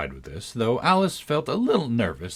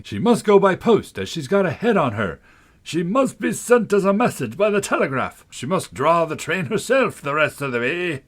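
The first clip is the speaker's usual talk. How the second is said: higher, louder crowd of passengers; chorus of voices; 7 semitones higher, 5 dB louder than usual. A narrator's reading. Passengers all proposing how to send Alice, higher and louder. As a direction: pile on the silly suggestions. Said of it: "the other voices went on".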